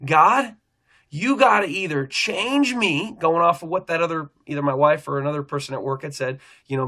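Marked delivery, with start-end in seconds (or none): 0.0-3.2 higher, drawn out and slow, pleading; crying out in prayer. Retold or imitated. At work, begging God for change, slow high plea. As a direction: stretch every word like a plea to heaven. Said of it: "I start crying out".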